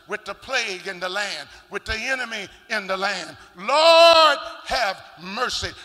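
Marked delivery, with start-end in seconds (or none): 3.6-5.7 pleading cry. Real, not acted. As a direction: LORD cried far louder and higher.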